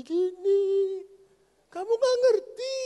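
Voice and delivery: high, loud impatient outburst; exasperated husband. Retold or imitated. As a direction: snap at her, fed up. Impatient husband explaining to his wife. (suami kesal membentak istrinya dengan nada tinggi)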